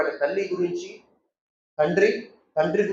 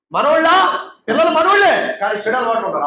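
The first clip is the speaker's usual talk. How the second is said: louder and higher on the first word; sudden emphatic warning; 5 semitones higher, 5 dB louder than usual. Real, not acted. Preacher warning parents, emphatic and loud. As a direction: burst out with the warning.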